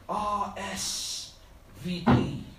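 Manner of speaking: letters R S V P in a mock thick Eastern European accent. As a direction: spell out R S V P like an Eastern European immigrant. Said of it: "in his thick Eastern European accent".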